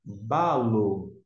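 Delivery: Balo, stress on the first syllable BA; Greek word. Shown as a demonstration. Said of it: "Qual é o próximo termo". (Balo, tônica no BA)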